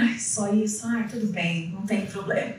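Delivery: retold quiet relief; relieved acceptance. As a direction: quote your relief, dropping the voice. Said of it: "até respirei com alívio".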